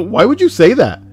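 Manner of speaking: high-pitched mock questioning; hammed-up retold question; imitating a questioner. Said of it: "ask why she would say that".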